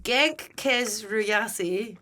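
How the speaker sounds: sounding out each syllable slowly; slow careful pronunciation. Shown as a demonstration. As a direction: read it out very slowly. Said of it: "We are trying".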